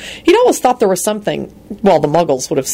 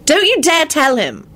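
threatening; 10 semitones higher than usual. A narrator's reading. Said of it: "Rosie replied threateningly".

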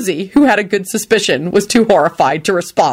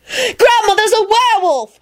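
contained mock scream; narrated scream. A narrator's reading. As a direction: blurt it in a high squeal. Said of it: "she screamed at the top of her lungs".

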